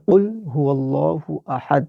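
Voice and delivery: teacher models কুল with a throaty k sound; proper qaf in কুল; correct recitation. Shown as a demonstration. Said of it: "সঠিক উচ্চারণটা হবে".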